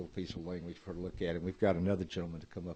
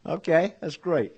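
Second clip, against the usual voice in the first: slow, high, laughing through words; 9 semitones higher, 10 dB louder, slower than usual. Real, not acted. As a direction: still giggling while speaking. Still laughing after the reveal.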